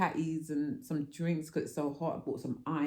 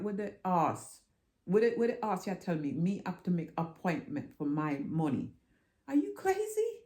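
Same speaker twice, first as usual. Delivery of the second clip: indignant rant. Retold or imitated. Ranting at the teller.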